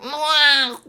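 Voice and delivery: high imitated meow; cute high cat sound. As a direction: mew like a little cat. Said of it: "My cat should be going like".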